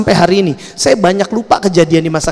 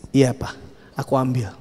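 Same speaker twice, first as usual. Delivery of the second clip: put-on low, hushed child's confession; pengakuan takut; 6 semitones lower, 8 dB quieter than usual. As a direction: confess quietly to your father, as if braced for punishment. Scared child confesses to father. (mengaku pelan dengan suara rendah)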